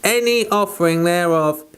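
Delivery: measured, solemn Bible reading; formal King James reading aloud; scripture reading. Acted. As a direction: read the old text with reverent weight. Reads scripture aloud from Leviticus.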